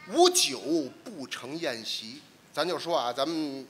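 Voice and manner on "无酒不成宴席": slow quoted verse line; recitation. Shown as a demonstration. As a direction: recite it slowly. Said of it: "头一句是这个".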